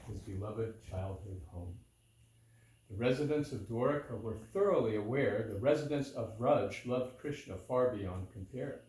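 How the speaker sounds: measured storytelling in metre; verse narration. A narrator's reading. Reading Balaram's visit to listeners, measured verse narration. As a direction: read it as rhymed verse, phrase by phrase.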